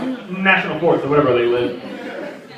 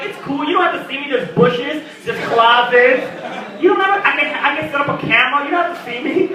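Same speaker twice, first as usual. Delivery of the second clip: higher, sweetly creepy stalker; 4 semitones higher than usual. Retold or imitated. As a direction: reassure them from the bushes, higher. Stalker voiced, creepy reassurance.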